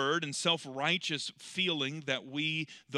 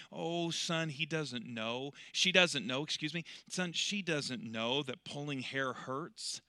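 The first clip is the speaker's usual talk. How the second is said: soothing mother; 6 dB quieter, slower than usual. Retold or imitated. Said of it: "tries to soothe him and tries to comfort".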